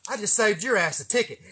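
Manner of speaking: put-on smug cop cracking the joke on an old friend; smug cop punchline. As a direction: deliver the gotcha like a smug officer. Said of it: "that shit was so funny".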